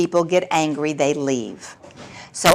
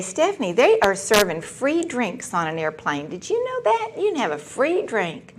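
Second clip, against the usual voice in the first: mock eager husband; 4 semitones higher, 4 dB quieter than usual. Husband on phone about drinks.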